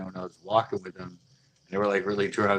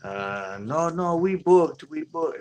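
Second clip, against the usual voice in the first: mock Asian accent; 6 semitones higher, slower than usual. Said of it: "she was Asian".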